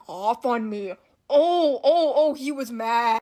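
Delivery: giggling while telling how mad he was; laughing. Real, not acted. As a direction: laugh out the words remembering him mad. Laughing while recalling angry teacher.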